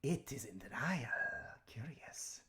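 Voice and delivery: hissing whisper of a curious serpent; breathy snake creature, intrigued. Acted.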